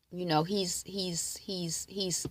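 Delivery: hushed, unsure whisper; whispered hesitation. Real, not acted. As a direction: drop to an unvoiced whisper, stalling.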